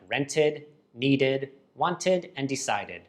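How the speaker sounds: "rented, needed, wanted, decided" each ending in a clear "id"; extra-syllable endings. Shown as a demonstration. Teacher gives examples of id after T or D, endings sounded out. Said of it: "it creates an extra syllable".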